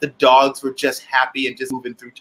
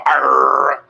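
dog growl imitation; 5 dB louder than usual. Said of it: "she would look at me and go".

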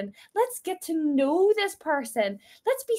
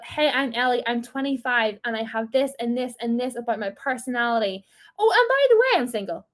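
casual afterthought. Shown as a demonstration.

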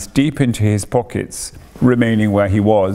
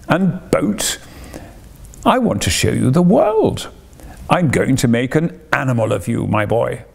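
imploring Toad. Acted. Toad begging Ratty to join the trip, imploring. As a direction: coax stubborn Ratty to come along. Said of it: "said Toad imploringly".

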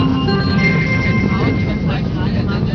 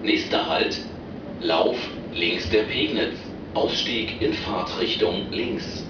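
over the intercom. Real, not acted. Recorded train stop announcements.

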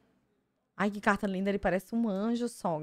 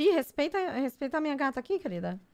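sassy mock defense; 5 semitones higher, faster than usual. Defending a favourite character.

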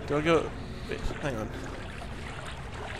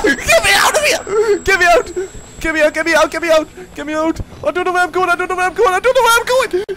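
high, loud frantic pleading; panicked screaming; 13 semitones higher, 8 dB louder, faster than usual. Real, not acted. Player fleeing the monster, screams frantically. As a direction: beg to escape, terrified and frantic.

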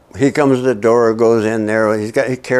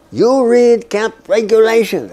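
interrogator's question; 12 semitones higher, 5 dB louder than usual. Retold or imitated. Interrogator quizzing prisoner.

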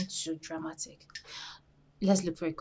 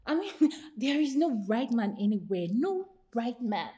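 laughing; 4 semitones higher, 6 dB louder than usual. Acted. Mocking friend's hopes.

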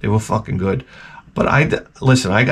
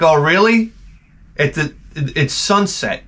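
mock disbelief; 4 semitones higher, slower than usual. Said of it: "You're like".

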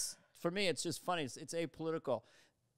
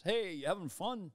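Rodney Dangerfield; 4 semitones higher than usual. Retold or imitated. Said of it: "Rodney Dangerfield".

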